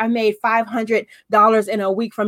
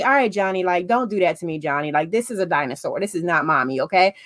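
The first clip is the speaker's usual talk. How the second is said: lower, softer, deadpan correction; blunt honest mom; 4 semitones lower, 3 dB quieter than usual. Retold or imitated. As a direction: drop the act and tell him straight. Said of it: "you're not gonna tell Johnny".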